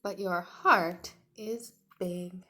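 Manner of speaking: a touch of a tender mother, slow at the end; mother's voice. Acted. Teacher reading the mother to Tiny, tender and slow. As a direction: gently lift a mother's voice for her little one.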